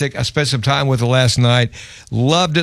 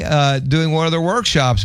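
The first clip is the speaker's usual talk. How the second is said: ordinary talk, nothing marked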